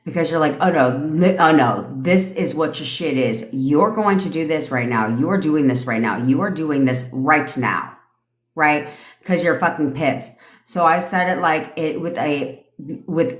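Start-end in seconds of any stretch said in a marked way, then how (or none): 0.6-8.0 authoritative commands. Retold or imitated. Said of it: "you give it with backbone, with authority".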